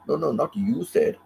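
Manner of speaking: high, insistent "No, no, not you said"; quoted correction. Retold or imitated. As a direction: play the other person correcting her. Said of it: "they will come back to say".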